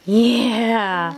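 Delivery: long, drawn-out happy yeah; encouraging, stretched praise; cheering. Real, not acted. Cheering the child's attempt.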